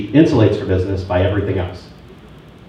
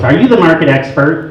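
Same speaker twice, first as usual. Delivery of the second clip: mildly mocking, higher-pitched challenge; imitated challenging wife; 6 semitones higher, 3 dB louder than usual. Wife phoning a rival agent, imitated challenge. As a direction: put on a wife's suspicious question. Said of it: "got a call from his wife first".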